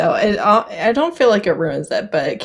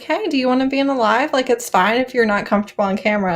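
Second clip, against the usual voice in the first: friendly invitation; 5 semitones higher, faster than usual. Retold or imitated. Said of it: "I'm like".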